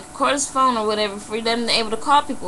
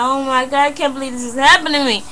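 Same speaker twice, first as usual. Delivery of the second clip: raised, hurried mock cry; retold crying panic; 4 semitones higher, 3 dB louder than usual. Robbery victim realizing what happened, retold tearful panic. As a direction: imitate a tearful, disbelieving rush. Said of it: "I started crying".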